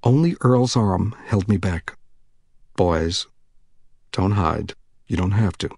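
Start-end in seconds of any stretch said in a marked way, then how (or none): 2.8-5.7 lightly voiced coaxing man, lower; friendly voice. A narrator's reading. Man coaxing the hiding boys, friendly low voice. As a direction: coax them out gently. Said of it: "in a friendly voice".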